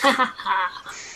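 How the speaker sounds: short cackling laugh; witch cackle. Acted.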